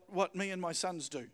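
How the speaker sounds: normal talking voice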